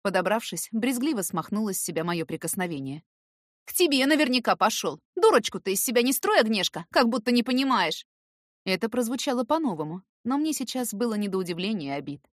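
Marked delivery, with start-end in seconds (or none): 3.7-8.1 raised, bitter voice; louder, higher reproach; angry accusation. A narrator's reading. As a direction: throw the blame at her. Irka accusing her friend.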